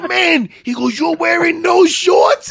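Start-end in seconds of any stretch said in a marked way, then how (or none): 0.1-0.5 high-pitched, laughing exclamation; mock someone cracking up; imitating laughing friend. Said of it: "and he's laughing". 1.0-2.5 high, loud, drawn-out mock disbelief; hammed-up hysterical teasing, slowed right down; imitating laughing friend. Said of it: "and he's laughing".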